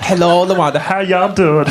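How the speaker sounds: high-pitched put-on greeting; restaurant staff greeting. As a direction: greet a regular in a high caricature voice.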